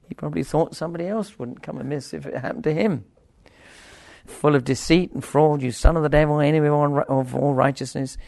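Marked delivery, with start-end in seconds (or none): 4.3-8.2 loud, firm denunciation; forceful rebuke. Acted. Paul rebuking the magician Elymas, loud and firm. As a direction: speak it straight and strong. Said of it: "he speaks clearly and straightly".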